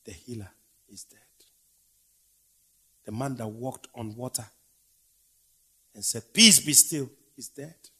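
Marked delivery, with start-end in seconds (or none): 0.0-1.2 soft unvoiced whisper; grieving whisper. Preacher whispering the healer's death to the congregation. 6.3-7.1 loud, raised command; commanding call. Acted. Jesus commanding the storm to be still, loud.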